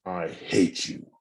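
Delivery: slow, soft and cold, "I hate you" dragged out; a quiet, deliberate "I hate you". Shown as a demonstration. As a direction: let each word of "I hate you" sink in slowly. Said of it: "How about".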